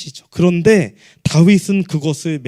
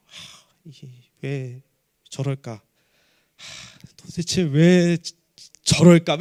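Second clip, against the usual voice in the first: slow mock exasperation with breathy sighs; sigh, then drag out the baffled complaint; imitating a fed-up spouse; exasperated sighing; 3 semitones lower, much slower than usual.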